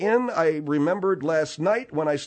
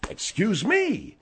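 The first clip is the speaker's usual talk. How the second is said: sarcastic. Acted. Host answers being called sarcastic, sarcastic. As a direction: feign offence with exaggerated innocence. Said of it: "when you are sarcastic".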